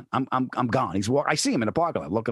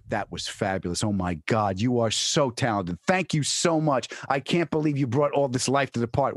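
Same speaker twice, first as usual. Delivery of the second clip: mock gushing praise; fawning. Casting people to an actor after one take, fawning. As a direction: imitate casting people laying on flattery. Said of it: "they're fawning all over you".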